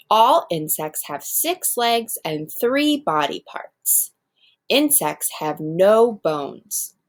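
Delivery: put-on slow, clear read-aloud to young kids; expressive classroom read-aloud; reading to children. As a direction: read it out like a picture book for the class. Teacher reads text aloud.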